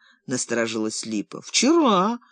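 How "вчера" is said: hopeless mumble. A narrator's reading. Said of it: "с безнадёжностью в голосе промямлил Ромка".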